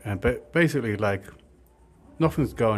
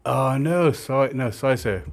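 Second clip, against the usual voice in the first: panicky apology; 4 semitones higher, 5 dB louder than usual. Retold or imitated. Apologising to big guy.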